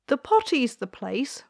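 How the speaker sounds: a touch of a firm queen; lightly voiced royal mother. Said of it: "said the queen".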